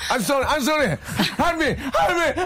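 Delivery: high panicked English cries for help; panicked victim. Acted. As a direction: plead for help in mock terror. Acting zombie victim in English.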